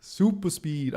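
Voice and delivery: hammy mock-Italian boast; horrible Italian accent. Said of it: "that was a horrible Italian accent too".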